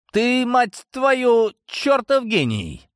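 slow, high, mocking shout; drawn-out furious sarcasm; sarcastic yell. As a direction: bellow the sarcastic praise. Father yelling at son.

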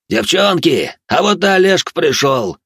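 loud, high and gleeful; joyful drunken yell. Acted. Drunk roommate greets Oleg with a joyful yell. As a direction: yell it out happily to the girls. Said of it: "радостно проорал последний".

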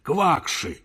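a lightly voiced cranky scientist; irritable professor. Professor snapping at a reporter, testy.

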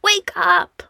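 high, breathless whispered Wake up; pleading whisper. A narrator's reading. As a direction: beg them in a desperate whisper. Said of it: "Fili begged".

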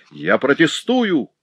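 jealous husband protesting; outraged protest. A narrator's reading. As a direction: forbid it with outrage. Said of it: "завопил он".

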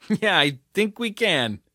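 mocking laugh. The speaker laughing back at her.

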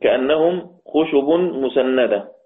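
slow measured Quranic recitation of the verse; slow Quran recital. Shown as a demonstration. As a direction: recite it slowly, tajwid style.

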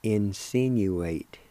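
insinuate said slowly; careful slow "insinuate"; spelled-out word. Shown as a demonstration. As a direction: sound out "insinuate" syllable by syllable. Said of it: "One and four is the word".

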